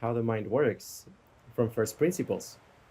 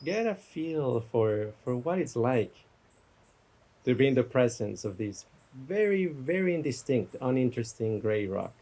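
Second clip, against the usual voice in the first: guided meditation. Real, not acted. Teacher guiding listeners to imagine a gray rock, guided meditation. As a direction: let each image settle before the next. Leads a guided imagery exercise.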